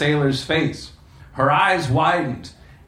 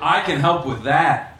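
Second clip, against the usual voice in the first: coy. Acted. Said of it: "she smiled coyly".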